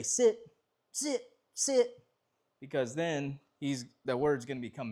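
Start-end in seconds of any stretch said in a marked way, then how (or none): 0.0-2.1 repeated sit. Shown as a demonstration. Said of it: "You don't wanna say".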